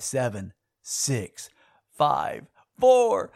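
rising countdown. Retold or imitated. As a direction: count down with mounting tension, pitch climbing. Imitating alarm countdown, rising.

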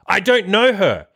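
high, slow, drawn-out disbelief; mock astonished reveal. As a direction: imitate her giddy confession, stretching it out. Retells date's big reveal.

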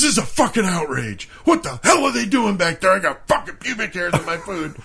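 high-pitched mimed tirade; outraged mock scream. Friend complaining to the manager, lightly mimed screaming. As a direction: act out an over-the-top outrage. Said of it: "'cause he's screaming".

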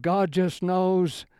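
imitating an exasperated friend, slow and high; wild-eyed insistence. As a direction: lean into each word like a fervent friend. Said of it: "he looked at me and kinda wild-eyed".

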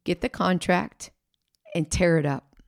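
hushed, then breathy whisper on tear it up; God whispering the command in his heart; God's whisper. Retold or imitated. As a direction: whisper it like a still small voice. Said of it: "heard God whisper this in his heart".

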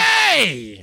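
high mock shout; scolding call-out. Old people to a passing cyclist, scolding shout.

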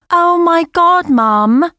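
put-on loud teenage groan; protesting. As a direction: whine it in protest. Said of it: "I protested".

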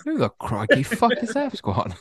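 cracking up while echoing it; laughing repeat. Real, not acted. Cohost echoing the funny line while laughing.

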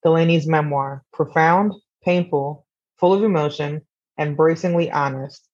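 measured book-summary narration; scripted synopsis read. Acted. Podcaster introducing a memoir to listeners, scripted narration. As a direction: read it out as a composed, even synopsis.

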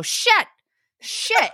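put-on very high-pitched kid's swear; imitating little boy. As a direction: squeak it like a small child. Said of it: "he'll go".

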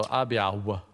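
Abba said as Abiao; Abiao, ah-bee-OW with a W; mispronounced Abba. Shown as a demonstration. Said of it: "you really gotta go".

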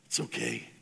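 a whispered grandmotherly hush; whispered comfort. Acted. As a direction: whisper "okay" softly, breathy and low. Repeated, now unvoiced.

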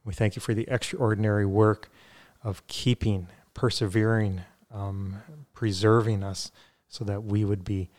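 measured prayer with pauses between phrases; spoken prayer. Real, not acted. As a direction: pray aloud sincerely, phrase by phrase. Leads a closing prayer.

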